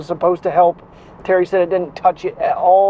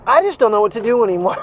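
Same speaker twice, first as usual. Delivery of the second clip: exasperated shout; 2 semitones higher, faster than usual. Real, not acted. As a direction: throw up your hands and shout it. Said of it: "That's my answer to everything in life".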